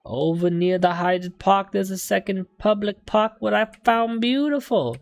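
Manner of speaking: slow, drawn-out mock-London accent; affected London accent. Defendant describing his favourite park, slow mock-London accent. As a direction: put on a shaky London accent, taking your time.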